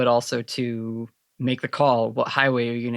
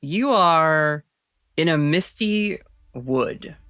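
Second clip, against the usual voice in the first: game master narration. Acted. GM sets dream scene.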